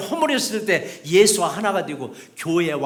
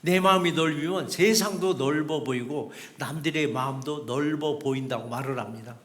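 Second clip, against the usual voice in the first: normal talking voice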